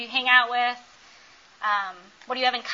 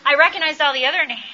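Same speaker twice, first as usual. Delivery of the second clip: standup crowd work; 2 semitones higher, 5 dB louder than usual. Pretend. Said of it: "No, I'm joking".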